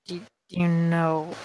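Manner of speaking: soft, halting muttered question; muttering. Acted. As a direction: mutter it under your breath. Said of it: "The gas will just kind of mutter".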